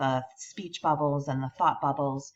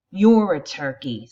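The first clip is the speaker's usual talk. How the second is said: snickering; 9 dB louder than usual. Acted. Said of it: "snickers Eric".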